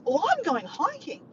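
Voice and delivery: high, drawn-out retold announcement; excited friend. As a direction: imitate someone proudly showing off their plans. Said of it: "he was so excited".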